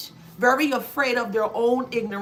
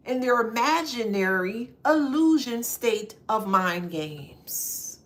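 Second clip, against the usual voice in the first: normal talking voice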